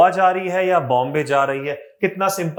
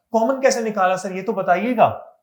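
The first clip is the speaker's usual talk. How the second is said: lightly voiced student, pitched higher; imitated student question; 4 semitones higher than usual. Teacher voicing a pupil asking sir for the method, lightly imitated. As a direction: pipe up as a curious pupil.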